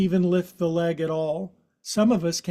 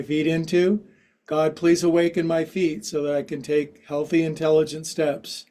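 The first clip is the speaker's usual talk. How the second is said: prayer. Pretend. Yoga teacher praying to God for her feet, mock-earnest prayer. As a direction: pray over your feet, half joking. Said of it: "That was a pretty good prayer".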